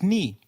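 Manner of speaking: "ni" said like the ny in canyon. Shown as a demonstration. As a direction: say "ni" as one palatal nasal. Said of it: "like in canyon".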